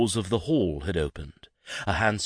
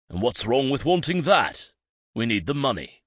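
defensive father; 6 semitones higher, 4 dB louder than usual. A narrator's reading. Father argues with son.

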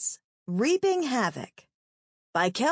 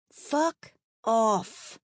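growled; 2 semitones higher than usual. Acted. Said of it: "I growled".

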